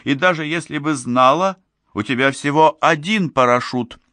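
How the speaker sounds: сдержанный выкрик. A narrator's reading. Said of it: "выкрикнула она". (взволнованный протест высоким голосом)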